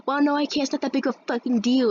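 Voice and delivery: mocked refusal. Girl refusing to move, mocked.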